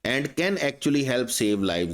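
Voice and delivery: very slow, each word separated; teacher reading a sentence slowly; slow dictation. Shown as a demonstration. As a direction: spell it out slowly for the class. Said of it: "ये अच्छा होता है".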